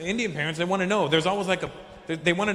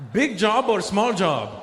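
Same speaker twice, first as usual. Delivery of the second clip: put-on slow, pressing Indian-accented question; insistent Indian dad; 3 semitones higher, 4 dB louder, slower than usual. Dad demanding an answer, insistent Indian accent. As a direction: repeat it slowly and firmly, Indian accent.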